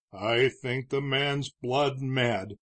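slow, hopeless speculation. Acted. Judge to Morgan about the gunman, slow and hopeless. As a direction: let the words sag without hope, slowly. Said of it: "in a hopeless way".

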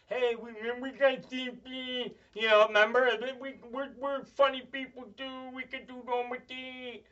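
mock disabled performer. Voices telethon performers with CP.

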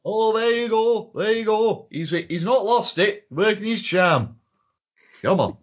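imitating an approving mate; mock admiration. Acted admiring quote.

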